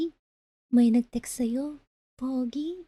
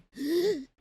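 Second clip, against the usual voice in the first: wheezing gasp; 3 semitones higher than usual. Pretend. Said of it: "Wheezing A S M R".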